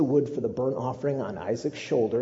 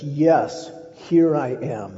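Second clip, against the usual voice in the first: eager answer; 3 semitones higher, 8 dB louder, much slower than usual. Acted. Abraham answering God loudly.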